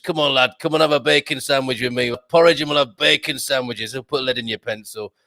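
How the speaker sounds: lightly voiced blunt Yorkshire mentor; a hint of a no-nonsense northern mentor, quick and dismissive; gruff Yorkshireman mentor. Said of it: "he was like".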